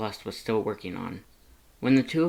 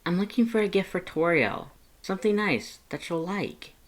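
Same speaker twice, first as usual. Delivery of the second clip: put-on higher, lighter voice for the young human Frisk; 8 semitones higher than usual. A narrator's reading. Frisk asks Lust for gift advice, lighter higher voice. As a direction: voice Frisk asking for gift help.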